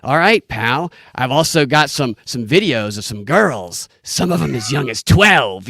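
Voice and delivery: a hint of a sleazy pawn shop clerk, slow; barely put-on sleaze, dragged out slowly; sleazy pawn shop guy. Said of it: "the sleazy, uh, pawn shop guy goes".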